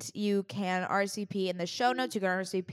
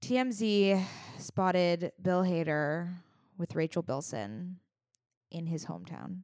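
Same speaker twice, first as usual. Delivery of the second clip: mock grave; 2 semitones lower than usual. Mock grave news delivery.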